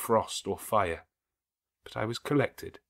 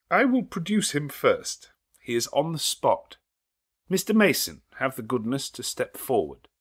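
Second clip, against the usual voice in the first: high, loud announcement; triumphant summons; 6 semitones higher, 5 dB louder than usual. Acted. Lawyer summons Mason, triumphant high call. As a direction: call the witness forward.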